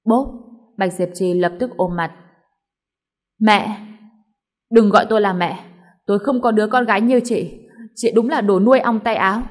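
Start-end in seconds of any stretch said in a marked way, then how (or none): 3.4-9.4 louder, furious disowning; mother lashing out at her daughter; angry shout. Acted. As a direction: spit the words at the daughter.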